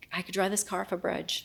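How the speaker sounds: hushed, hopeless whisper; whispered despair. Retold or imitated. Alone in the car, whispering her darkest thought. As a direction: let it slip out with no voice.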